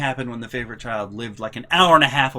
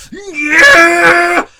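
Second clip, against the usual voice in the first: long, high, loud yelp of dismay; outraged shriek; 15 dB louder than usual. Retold or imitated. Mom shrieking as the box hits the wall. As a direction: shriek at the damage.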